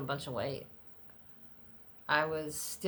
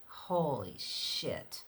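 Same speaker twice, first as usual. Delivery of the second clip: slow awed curse; 3 semitones lower, much slower than usual. Retold or imitated. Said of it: "I was so petrified".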